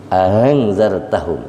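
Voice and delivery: slow "angzartahum", second hamzah softened into a glide; tashil. Shown as a demonstration. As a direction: glide through the opening of "angzartahum" without a hard stop. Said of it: "Tashil itu diringankan".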